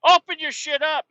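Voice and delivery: high loud barked order; angry command. Retold or imitated. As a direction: order him to open up, fed up. Berating driver to open lids.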